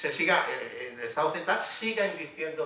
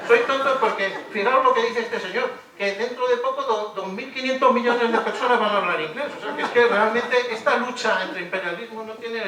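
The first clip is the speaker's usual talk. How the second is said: louder, higher, laughing through the words; laughing sarcastically; 5 semitones higher, 7 dB louder than usual. Real, not acted. Lecturer mocking the author's claim to his students, laughing. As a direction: laugh at how absurd the claim is.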